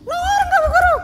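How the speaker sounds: put-on high childlike question; a child asking the teacher; curious little girl. Child asks.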